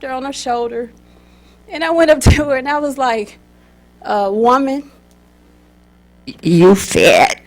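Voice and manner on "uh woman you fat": put-on blunt child. Child blurts out rude remark.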